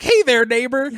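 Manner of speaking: high, sly greeting; smug neighbor voice. Retold or imitated.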